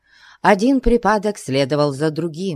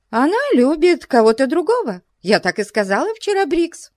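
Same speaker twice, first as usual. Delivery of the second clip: put-on high, quick fretful old lady; agitated old lady; 13 semitones higher, faster than usual. A narrator's reading. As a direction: rush it out, rattled. Miss Crawley's agitated speech. (взволнованная старая леди)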